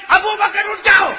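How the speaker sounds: loud, high proclaiming voice; thunderous sermon call; booming call. Acted. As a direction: call it out like a voice from heaven. Divine voice called out.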